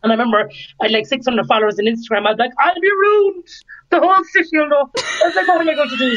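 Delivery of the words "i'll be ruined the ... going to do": retold panic. Retells panicking about public embarrassment.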